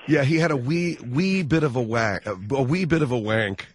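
put-on Irish accent. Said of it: "that whole accent".

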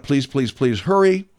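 building to a high pleading hurry; a hint of fake panic rising; mock panicked plea. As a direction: plead with faked urgency. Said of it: "There's a lot of".

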